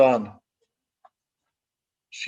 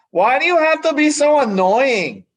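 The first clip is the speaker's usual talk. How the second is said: put-on higher-pitched, irritated kid brother voice; annoyed big brother; 11 semitones higher, 4 dB louder than usual. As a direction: let the brother's annoyance burst out. Brother snaps at jingling sister.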